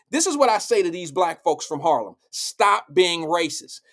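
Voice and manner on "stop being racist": drawn-out mock scolding; slow the opening command, tongue in cheek; sarcastic. Telling Harlem's black folks off, sarcastically. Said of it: "I'm being sarcastic".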